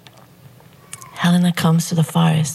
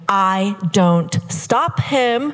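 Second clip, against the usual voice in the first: slow, drawn-out build, climbing higher; giddy, melodramatic storytelling rising in pitch; mounting swoon; 5 semitones higher than usual. Retold or imitated. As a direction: stretch the words as the thrill mounts. Mock-swooning build of the kisses.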